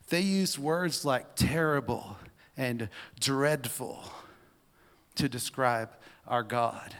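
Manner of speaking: emphatic reading building to a declaration; dramatic read-aloud. Acted. Reads essay, builds to conclusion.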